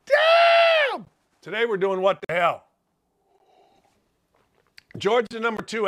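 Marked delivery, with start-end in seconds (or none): 0.1-1.1 shouted. Real, not acted. Proposes a segment name, hollered.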